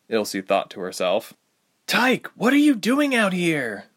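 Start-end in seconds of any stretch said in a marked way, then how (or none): 1.9-3.9 higher, slowed, strained call; exasperated yell. Acted. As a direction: throw up your hands and call out. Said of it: "she yelled in exasperation".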